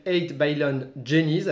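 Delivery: the title said with a self-mocking English accent. Shown as a demonstration. A French reviewer shows off his English accent on the title. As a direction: roll out the English title in a proud, hammed-up English accent. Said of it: "avec mon accent anglais magnifique".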